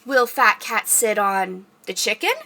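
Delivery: slow, drawn-out read-aloud question; reading to children. Pretend. Librarian reading picture book to kids, slow suspenseful question.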